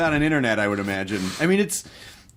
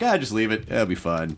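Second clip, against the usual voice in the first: mock British; 5 semitones lower than usual. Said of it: "they're like".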